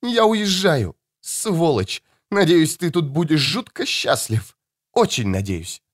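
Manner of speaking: put-on high, shrill-free angry young woman's cry; furious daughter. Daughter leaves in anger.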